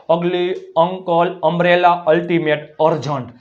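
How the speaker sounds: અગલી, અંકલ, અમ્બ્રેલા, અલ્ટિમેટ, અર્જન્ટ opening on a held "uh"; correct "a" readings. Shown as a demonstration. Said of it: "અ, અ, અ". (અગલી, અંકલ, અમ્બ્રેલા, શરૂઆતમાં અ)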